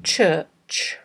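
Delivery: slow, careful single word; slow dictation. Shown as a demonstration. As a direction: read it out slowly, pausing long between repeats. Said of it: "read ten words aloud slowly".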